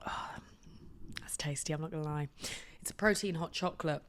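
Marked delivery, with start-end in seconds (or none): 0.1-2.3 sipping, then a hushed aside; slurping hot drink. Real, not acted. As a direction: mouth on a hot mug. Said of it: "let me have a slurp".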